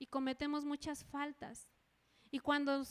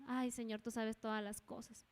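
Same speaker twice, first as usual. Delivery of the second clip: low, softer, brushing it off; weary evasive reply; 4 semitones lower, 5 dB quieter than usual. Acted. Believer answering the Lord's question, weary and evasive. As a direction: sigh it out low as a dodging answer.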